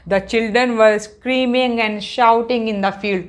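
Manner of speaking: drawn-out classroom reading; slow reading aloud. Shown as a demonstration. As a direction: read the line out to the class. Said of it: "ये वाला sentence मैंने पढ़ा".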